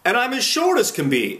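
high, loud little-man voice; small voice. A narrator's reading. Man showing how short he gets, high little voice. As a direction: pitch it right up as if shrunk small. Man shrinks to pebble size.

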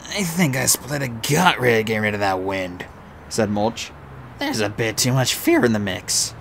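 rough, earthy dwarf; gruff dwarf voice. Acted. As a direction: play the boastful dwarf. Mulch speaking.

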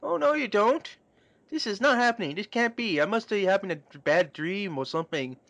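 high, frantic disbelief; panicked denial. Acted. Ringo refusing to believe the pregnancy, high panic.

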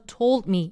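"told" punched, "me" light; stress on told. Shown as a demonstration. Teacher showing where to press, stress on "told". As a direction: hit "told" then drop. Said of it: "이렇게 눌러주시면 돼요".

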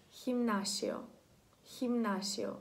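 "хімнасіо" begun with a kh sound; kh pronunciation. Shown as a demonstration. Teacher giving an example word, initial kh sound. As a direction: model "хімнасіо" with kh before the i. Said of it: "це буде читатися як".

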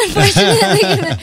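a word squeezed out through a high laugh. Real, not acted. Guest laughing about losing her Italian. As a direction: laugh it off ruefully.

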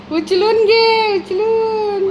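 high slow mock whine; voicing dog whining. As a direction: whimper like the dog begging to be carried. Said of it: "उचलून घे म्हणतोय". (कुत्र्याचा लाडिक रडका आवाज)

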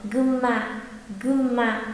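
"gumma" said with a long m, no n; N turned to M. Shown as a demonstration. Teacher repeats for learners to hear, "gumma" with M. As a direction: model "gumma" twice with lips closed on the M. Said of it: "biến chữ ừn thành chữ M".

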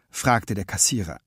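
usual speaking voice

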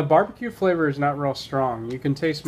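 eating a crunchy snack; talking while chewing. Real, not acted. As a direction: mouth partly full. Seen 0: Man brings snack to mouth, chews early on; later just holds it.

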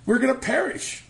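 high, loud mock panic. Preacher mimicking frightened disciples, high mock panic. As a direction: ham up their panic.

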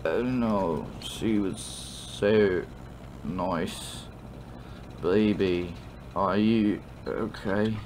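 put-on slow, slurred drunk sympathy. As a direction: console tipsily, stretching the words. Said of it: "what it sounds like when you're drunk".

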